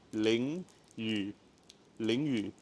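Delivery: "Ling yu" said low and clear; Mandarin ling yu. Shown as a demonstration. Teacher modelling the phrase for viewers. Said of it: "is called ling yu".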